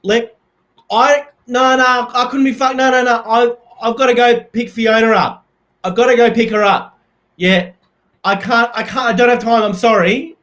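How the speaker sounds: high, loud, hammed-up frantic voice; Forrest Gump impression. A man begging his housemate to buy party food, high and loud. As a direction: bluster through it like a harried guy on the phone. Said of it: "here's my Forrest Gump impression".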